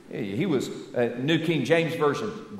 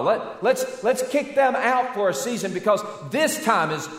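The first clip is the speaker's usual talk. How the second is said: mock dismissive disciples; 5 semitones higher than usual. Preacher mimicking disciples pushing children aside, mildly raised. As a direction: play the disciples brushing the kids aside.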